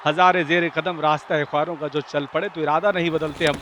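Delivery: ordinary delivery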